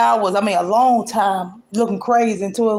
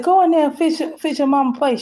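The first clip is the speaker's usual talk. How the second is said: sharp command; 5 semitones higher than usual. Retold or imitated. Ordering daughter to fix plate.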